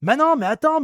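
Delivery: high, loud stunned Quoi; shocked what. Retold or imitated. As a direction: react in shocked disbelief. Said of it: "qui a fait". («Quoi ?» choqué et fort)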